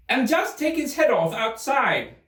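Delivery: high, commanding royal voice; imperious Queen. Acted. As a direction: order the officer about haughtily.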